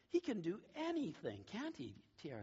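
high, eager teaching tone; retold motherly enthusiasm; imitated encouraging mother. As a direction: coax agreement from a small child. Mother retold coaxing child.

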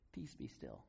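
low, soft retold command; hushed command. Jesus speaks to the storm, hushed command. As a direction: drop low and quiet to still a storm.

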